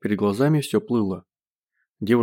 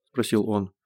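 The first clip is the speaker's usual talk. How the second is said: plain reading voice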